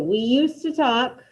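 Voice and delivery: We used to talk and I used to eat read slowly, each word separate; teacher dictating phrases to the class; slow dictation. Shown as a demonstration. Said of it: "first two".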